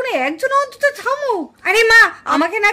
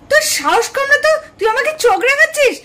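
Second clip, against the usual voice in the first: angry challenge; 4 semitones higher than usual. Acted. Elder daughter-in-law angrily challenging the younger one. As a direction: scold her for glaring.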